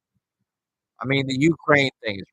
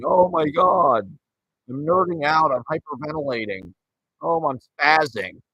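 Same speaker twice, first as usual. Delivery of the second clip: high, slow hammed-up panic; squealing over-the-top nerd panic, drawn out; mock freak-out; 6 semitones higher, 5 dB louder than usual. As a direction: ham up a kid losing his cool. Mocking a flustered kid.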